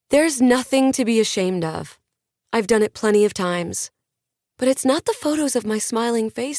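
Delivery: pep the audience up like a lifestyle guru; a hint of a motivational influencer addressing fans; upbeat influencer on stage. The speaker continues her talk.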